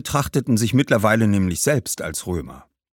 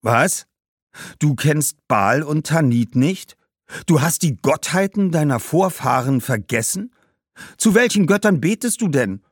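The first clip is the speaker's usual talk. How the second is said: higher, incredulous ancestor; scandalised ghost; 7 semitones higher, 3 dB louder than usual. Acted. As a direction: question the boy in shocked disbelief. Ghost appalled at forgotten gods. (ungläubig entsetzter Geist)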